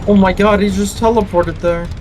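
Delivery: exasperated "oh my god"; surprised. Real, not acted. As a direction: caught off guard and annoyed. Killer teleports suddenly.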